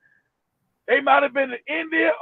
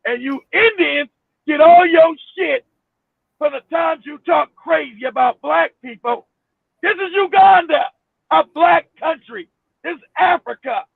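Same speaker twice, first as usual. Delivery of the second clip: mock dictator decree. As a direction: lay down the order like a dictator. Voicing Idi Amin's decree.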